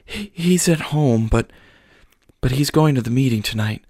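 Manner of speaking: high, halting, frightened speech; tearful worry. Acted. Frightened mother explains the meetings, tearful and halting. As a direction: stammer through the fear. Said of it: "She started sobbing again".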